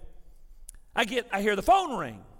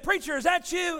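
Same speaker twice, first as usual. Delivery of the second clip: higher-pitched imitation of a woman caller; imitated young lady, pitched up; young lady's voice; 8 semitones higher than usual. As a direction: raise the pitch, an anxious caller on the phone. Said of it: "I heard this young lady's voice".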